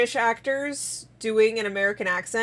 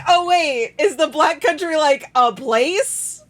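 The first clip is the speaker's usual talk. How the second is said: retold realization; 5 semitones higher, 5 dB louder than usual. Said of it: "And then I was like".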